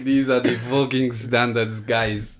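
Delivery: lightly imitated Spanish football manager; earnest, emphatic team-talk impression; Arteta. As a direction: lay down the law in accented English. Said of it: "my Arteta one's goated".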